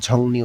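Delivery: "ঝংনি" with ন in place of র; assimilated pronunciation. Shown as a demonstration. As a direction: say "ঝংনি" with an n, not an r. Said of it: "এই রটা এখানে ন উচ্চারণ".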